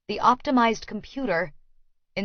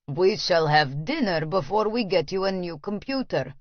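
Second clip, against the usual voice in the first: grandly. Acted. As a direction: announce it grandly. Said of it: "he says grandly".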